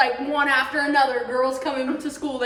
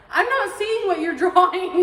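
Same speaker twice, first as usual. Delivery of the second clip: laughing quote; 5 semitones higher, 6 dB louder than usual. Retold or imitated.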